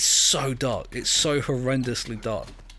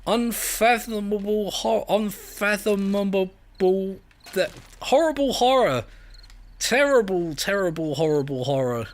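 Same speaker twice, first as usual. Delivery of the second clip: mock dramatic horror; 4 semitones higher than usual.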